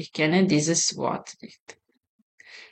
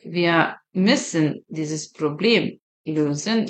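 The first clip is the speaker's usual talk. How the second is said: slower repeat; slower than usual. Shown as a demonstration. Teacher repeating the sentence for students, very slow and rising. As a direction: repeat "Wir müssen dieses Problem lösen" so students can follow. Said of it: "teacher repeats German sentence".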